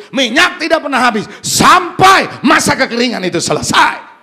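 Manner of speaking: loud, building sermon climax; fiery preacher at full volume; full-force preaching. Acted. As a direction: drive it home to the crowd.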